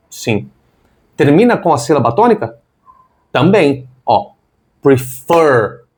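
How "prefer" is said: prefer with the second syllable stressed; stress on last syllable. Shown as a demonstration. Teacher showing learners the tonic syllable, stress on the end of prefer. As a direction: say "prefer", leaning on its final "fer". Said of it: "A tônica tá ali na última".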